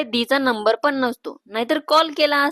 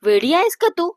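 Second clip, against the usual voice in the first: higher-pitched mild scolding; 6 semitones higher than usual. Acted. Sister scolding Priya after tapping her head, scolding. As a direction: tell off your sister. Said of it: "टपली मारते आणि म्हणते".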